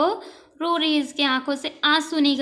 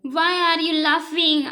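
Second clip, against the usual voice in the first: slow read-aloud; 2 semitones higher, 4 dB louder, much slower than usual. Shown as a demonstration. Princess's question read slowly.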